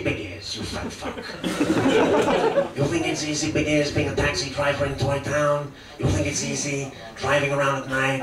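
a hint of a tough New York cabbie; menacing mock gangster muttering; lightly voiced brooding De Niro; De Niro impression. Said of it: "Robert De Niro has just been cast".

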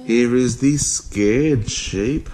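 slow, sing-song picture-book reading; reading to a child. Acted. Parent reading the sheep book to Max, slow storybook voice. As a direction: read it out slowly for a toddler.

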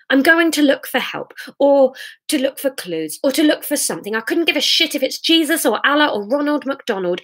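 heated argument. Acted. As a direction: argue back, pitch jumping up on each new challenge.

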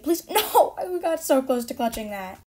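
laughing in disbelief. Real, not acted. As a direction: laugh through the words. Laughs at the near clutch.

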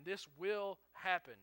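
slow, weighted "This will happen"; emphatic certainty. Retold or imitated. Jesus assuring Peter it is certain, slow emphatic "This will happen". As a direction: lean firmly on each word of "This will happen". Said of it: "That is for emphasis".

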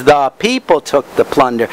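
"The people" singled out with emphasis; stress on PEOPLE. Shown as a demonstration. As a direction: lean on PEOPLE so it sticks. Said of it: "I put emphasis on different words".

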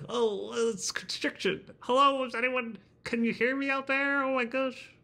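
very high, thin, constricted squeak; little mouse voice. Shown as a demonstration. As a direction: talk like a tiny mouse lost in a tunnel. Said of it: "like a little mouse or like a Kermit the Frog kind of character".

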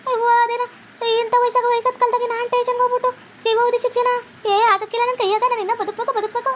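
put-on high-pitched, anxious old woman's voice; an old mother wailing that she must live; fretful old mother. Mother frets before the policewoman in a high anxious old woman's voice.

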